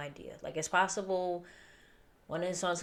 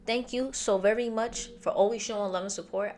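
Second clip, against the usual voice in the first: loud, higher-pitched shout-out; real raised voice; 5 semitones higher, 6 dB louder than usual. Real, not acted. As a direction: nearly yell your thanks to supporters. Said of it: "I'm sorry if I'm yelling in your ear".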